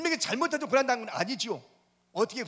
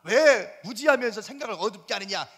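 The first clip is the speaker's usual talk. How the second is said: God scolding Job sternly; stern rebuke; 5 dB louder than usual. Retold or imitated. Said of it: "막 질문을 막 쏟아붓는 거예요".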